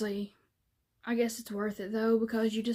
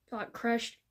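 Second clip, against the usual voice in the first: stumbling over words; tongue-tied; slower than usual. Real, not acted. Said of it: "if I can speak".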